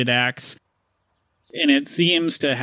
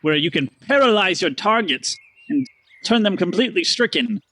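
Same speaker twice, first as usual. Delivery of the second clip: higher, eager showman; merchant pitch; 5 semitones higher than usual. Acted. Stanley offering amulet and ring. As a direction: rattle off wares. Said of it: "He goes".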